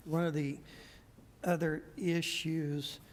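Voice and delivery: hoarse, fading voice; losing voice. Real, not acted. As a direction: push through a failing, hoarse voice. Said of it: "I'm losing my voice now".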